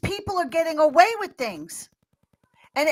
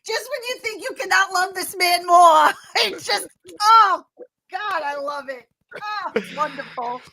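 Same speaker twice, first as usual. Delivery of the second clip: gushing delight; 5 semitones higher, 7 dB louder than usual. Real, not acted. Gushing over Trump's deposition.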